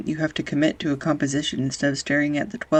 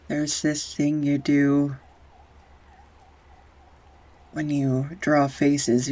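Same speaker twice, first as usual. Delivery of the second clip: tender; slower than usual. Acted. Telling her partner what she loves in his faces, slow and tender. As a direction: linger on each detail fondly.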